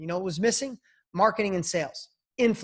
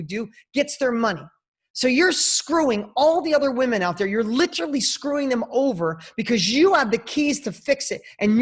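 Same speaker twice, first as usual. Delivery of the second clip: passionate scolding; 4 semitones higher, 5 dB louder than usual. Real, not acted. Speaker scolds the coach passionately.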